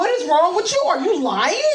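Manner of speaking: mock shouted disbelief. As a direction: fire it right back, half laughing. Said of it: "I'm like".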